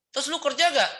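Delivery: high-pitched, pointed mock questioning; mock challenging. Preacher grilling a boastful believer, mock challenge. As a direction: put him on the spot, exaggeratedly.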